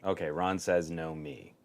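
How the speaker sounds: audio dropouts; audio dropping out. Real, not acted. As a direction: voice cutting in and out. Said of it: "StreamYard's messing up the audio on Juan's levels".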